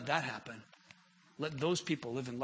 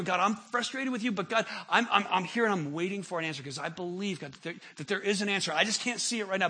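pleading prayer; 4 semitones higher, 5 dB louder than usual. Acted. Preacher voices Habakkuk's prayer.

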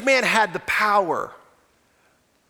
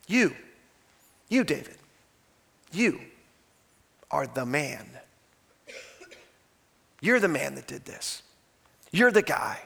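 grave accusation; 7 semitones lower, 6 dB quieter than usual. Retold or imitated. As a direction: point the finger quietly and heavily. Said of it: "Nathan said to David".

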